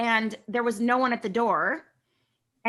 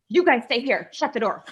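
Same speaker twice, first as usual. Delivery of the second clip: bossy order; 2 semitones higher, 3 dB louder than usual. Retold or imitated. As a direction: order them to stay put like the boss. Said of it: "Like, I was the boss".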